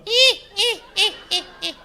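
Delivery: high, loud ghostly squeal; mock ghost squeals; ghostly shriek. Spooky transformation at one o'clock.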